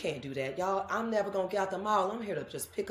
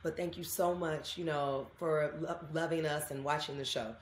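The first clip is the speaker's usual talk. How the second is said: soft polite refusal; 5 dB quieter than usual. Retold or imitated. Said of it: "I'm always gonna be like".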